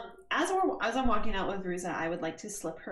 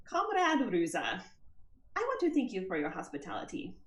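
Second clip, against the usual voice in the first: put-on Constantina accent. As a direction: read the letter in a gentle Constantina accent, measured and sincere. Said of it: "read a whole note in my Constantina accent".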